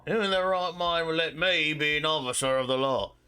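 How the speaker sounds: boozy, baffled British character; old British drunk questioning himself; put-on British accent, bewildered. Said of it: "I'll use the old drunk".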